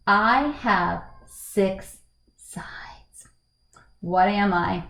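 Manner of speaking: very slow, word by word; long pauses between words, fading at the end; slow riddle clue. Acted. Teacher reading the deciding clue to pupils, very slowly.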